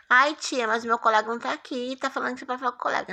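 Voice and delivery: whiny student. Retold or imitated. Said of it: "mimics a complaining student".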